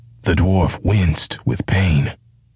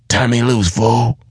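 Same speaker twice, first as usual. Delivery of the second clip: raised, sharp "Turn me loose" cry; dwarf crying out to break free; 6 semitones higher than usual. A narrator's reading. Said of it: "he cried".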